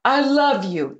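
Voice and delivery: high, loud retold exclamation; imitated breathless declaration. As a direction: blurt it out as the excited old man. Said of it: "he's all out of breath".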